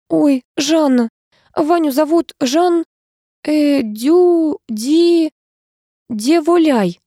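halting, high, slow search for «Деволяй»; stumbling over a hard word. A narrator's reading. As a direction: trips on «Дю-», «Ди-» before «Деволяй». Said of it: "справилась с трудным словом". (запинаясь на трудном слове)

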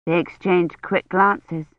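ordinary delivery

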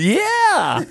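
very high imitating squeak; imitating Randy. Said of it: "Randy's going".

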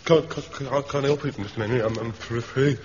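shivering, stammering with cold; teeth chattering. Acted. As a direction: stutter through chattering teeth. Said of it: "It's Pike's teeth chattering".

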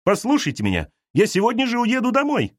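rising to a high pitch on leaving home; a guest trying to be heard; Arina, strained. Acted. Arina answers the mother. (Арина взволнованно)

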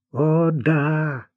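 angry. A narrator's reading. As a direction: agree with understated wrath. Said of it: "гневно сказал Климан". (со сдержанным гневом)

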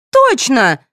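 put-on high-pitched girlish squeak; high, piping little exclamation; squeaky. A narrator's reading. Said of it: "пропищала Соня".

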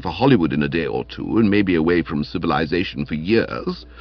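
coolly dignified self-defence; understated lofty reproof; cold. Acted. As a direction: answer an accuser with haughty restraint. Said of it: "I said coldly".

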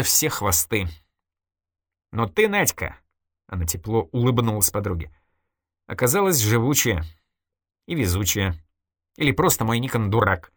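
a hint of a cool, confiding woman; Irina's voice, lightly voiced. Irina coolly confessing to her friend Nadya, lightly voiced.

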